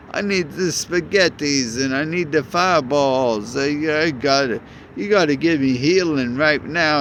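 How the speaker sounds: lightly voiced cartoon plumber asking for help; mild Mario-style plea; a hint of Mario. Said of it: "I'm a Mario".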